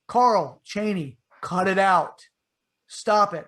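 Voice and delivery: loud, annoyed scolding with a slow drawn-out name; grumpy half-asleep telling-off; ornery. Retold or imitated. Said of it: "I'm just like, ornery".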